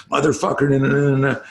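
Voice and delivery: sharp, high, retold furious cursing; an angry kid cursing and refusing, retold to his coach; furious outburst. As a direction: blow up like a furious teenager. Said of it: "he's fucking furious".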